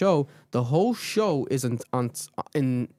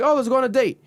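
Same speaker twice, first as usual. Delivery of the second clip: put-on girly; 10 semitones higher, 4 dB louder than usual. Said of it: "So, like".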